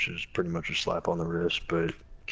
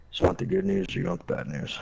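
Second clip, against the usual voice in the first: high teasing lawyer voice; mock lawyer voice; 13 semitones higher than usual. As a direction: imitate the lawyer pitched up high. Mimicking lawyer, pitched up.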